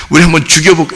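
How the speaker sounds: offhand, no-big-deal suggestion; casual musing. Acted. Preacher mocks a casual plot against Jesus, offhand musing. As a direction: float it lightly as an idle idea. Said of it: "이래서 죽인 거 아니에요".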